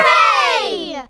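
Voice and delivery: put-on children's shouted hooray; group cheer. Children celebrating Grampy's recovery, happy cheer. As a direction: cheer all together.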